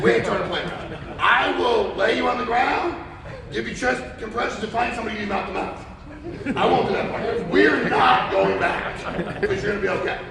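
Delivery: insisting hard that the plane won't turn back; retold selfish outburst. Refusing to let the flight turn around, loud near-shout. Retold rant at stewardess and passenger.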